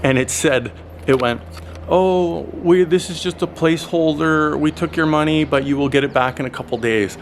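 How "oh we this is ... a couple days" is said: higher, breezy app voice; mock chatbot voice. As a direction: mimic the cheerful app excusing itself. Voicing the app's reply.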